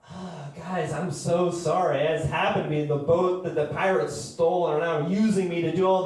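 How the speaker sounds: apologetic captured boat, lightly voiced; sheepish ship sorry for its pirates; a hint of a guilty pirate ship; pirate ship impression. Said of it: "my impression of a pirate ship".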